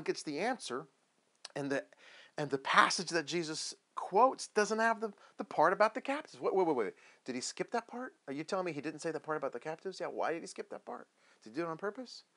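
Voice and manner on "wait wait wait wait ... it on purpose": quick incredulous questions rising at the ends; baffled disbelief. Acted. John learning the captives part was skipped, baffled. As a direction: stop short, then question it in disbelief. Acting John's baffled reaction.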